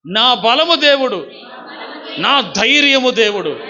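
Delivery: firm, slow, ringing declaration; said strongly. Shown as a demonstration. Preacher showing the congregation how to say it, strongly. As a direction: proclaim it boldly, every word weighted. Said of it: "చెప్పగట్టిగా".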